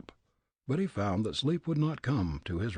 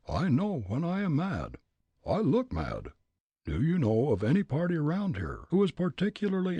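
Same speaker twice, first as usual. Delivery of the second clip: put-on furious old man; 5 semitones higher than usual. Old gent declaring himself mad to Fritz, blustering. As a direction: rage like a riled Leadville miner.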